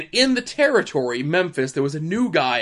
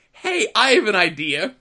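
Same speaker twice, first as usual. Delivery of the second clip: higher-pitched, retold crowd hype; raised-pitch mock rallying; working the crowd; 5 semitones higher, 4 dB louder than usual. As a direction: imitate a showman whipping up a crowd. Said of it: "he's working the crowd, he's getting them into a frenzy".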